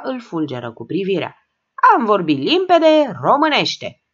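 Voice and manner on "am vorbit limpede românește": slow, higher and louder bellow; furious shout, higher; roar. A narrator's reading. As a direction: roar it at the old folks. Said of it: "răcni".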